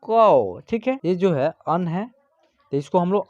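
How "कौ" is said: कौ said as kau with an open au glide; kau sound. Shown as a demonstration. Teacher showing students how कौ is spoken. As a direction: carefully sound out कौ. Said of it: "तो इसका उच्चारण होगा".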